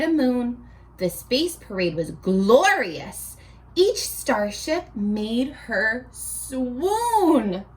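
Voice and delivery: put-on rhythmic read-aloud for children; storybook narration. A narrator's reading. Teacher reading a rhyming book to the class, sing-song storybook voice.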